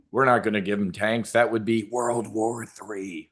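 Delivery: a hint of a breathy, slowed Biden impression; mock Biden creepy whisper. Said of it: "used to do the creepy whisper into the microphone".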